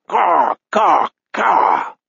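shrill screeching crow cry; crow caw. A narrator's reading. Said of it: "Gord says".

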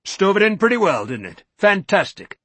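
high, loud, gloating jibe; a savage grin in the voice. Acted. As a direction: gloat over his damaged boathouse. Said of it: "grinning savagely".

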